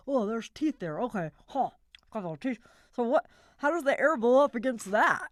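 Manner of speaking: lightly put-on creature voice, thinking aloud; a hint of a toothy character voice; working out a voice. Shown as a demonstration. Musing aloud while finding a toothy character, lightly voiced. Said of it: "I'm like".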